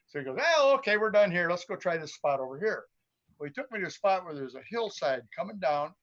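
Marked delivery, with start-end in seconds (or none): 0.4-2.8 friend's voice. Retold or imitated. Friend quoted, higher and louder.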